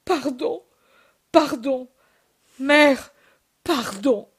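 pleading, rising and breaking on mère; a broken, tearful plea for forgiveness; mild sobbing plea, swelling on mère. Acted. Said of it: "il sanglote".

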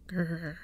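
short growl. A narrator's reading. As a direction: growl at a friend in irritation. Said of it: "I growled at Walker".

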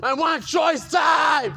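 slow, shouted tearful demand; crying demand. Real, not acted. Demanding choice time, tearful shout. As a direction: shout the demand through tears.

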